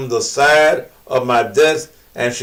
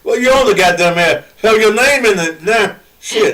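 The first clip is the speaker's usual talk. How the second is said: teasing; 6 semitones higher than usual. Real, not acted. Host laughing at caller's objection.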